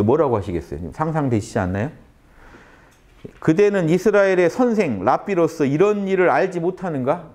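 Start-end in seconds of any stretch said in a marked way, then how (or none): 3.4-7.3 Jesus rebuking. Retold or imitated. Jesus rebuking Nicodemus, voiced.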